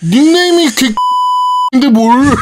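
삐 처리. Real, not acted. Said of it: "아, 이것도 삐처리할 거야".

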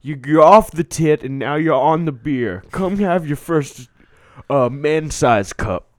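hammed-up father. Olden-times father to son.

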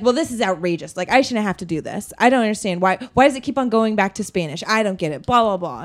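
loud, outraged complaining; mock outrage at the counter; indignant customer. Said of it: "And like".

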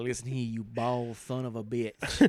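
slow menacing promo trash talk; wrestling promo. Acted. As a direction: lay it on slow like a heel. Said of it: "I'd cut a promo on him first".

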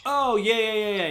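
sudden realization. Real, not acted. GM suddenly remembers the feat.

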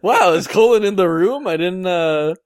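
high and loud through laughter; laughing. Real, not acted. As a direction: laugh while asking. Laughing at friend's impression.

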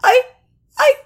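sobbing in distress; tearful wail; crying. Acted. Sobbing over Turin's mortality.

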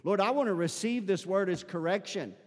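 earnest, fervent repeat of the prayer. Shown as a demonstration. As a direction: pray it again with real conviction. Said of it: "with a little bit more fervency".

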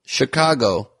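high, sarcastic aha; mock realization. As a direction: feign the big realization.

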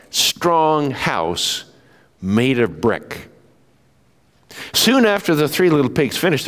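put-on lively read-aloud for children; storytelling. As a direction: tell it like a bedtime story.

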